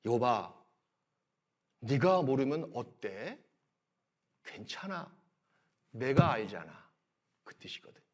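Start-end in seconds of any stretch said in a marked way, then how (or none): 0.1-6.9 soft, slow, tender reassurance; God gently comforting suffering Job. Shown as a demonstration. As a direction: soothe him like a father. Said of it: "위로하고 어루만지는 말씀이거든요".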